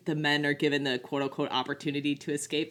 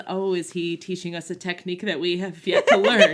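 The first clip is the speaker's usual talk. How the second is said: laughing quote; 2 semitones higher, 6 dB louder than usual. Retold or imitated. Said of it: "Ray Fiennes says".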